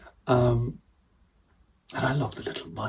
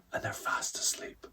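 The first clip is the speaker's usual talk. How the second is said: 1 whisper; 7 dB quieter than usual. Acted. Mice asleep, silent house.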